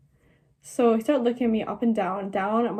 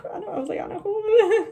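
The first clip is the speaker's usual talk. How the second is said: laughing; 9 semitones higher than usual. Retold or imitated. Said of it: "And he was laughing at me".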